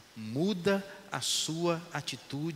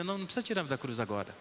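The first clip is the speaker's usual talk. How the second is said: humble plea; faster than usual. Retold or imitated. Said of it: "O outro está dizendo assim".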